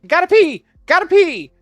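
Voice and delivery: high, loud mock-urgent yelp; urgent calling out. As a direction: call it out on the run. Calling out while running past coworkers.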